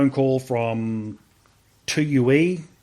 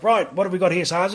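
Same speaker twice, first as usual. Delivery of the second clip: sergeant major; 6 semitones higher than usual. Retold or imitated. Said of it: "He, he just had a big voice".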